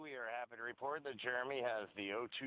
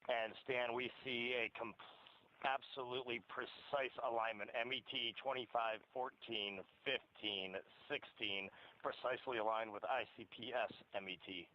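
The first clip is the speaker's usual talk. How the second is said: distant, thin radio voice; reading numbers over a comm link; radio transmission; 7 dB quieter than usual. Real, not acted. Crew reading clock over radio.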